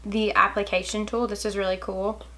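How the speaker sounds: soft speech with a hiccup; hiccuping between words. Real, not acted. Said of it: "sorry for these hiccups".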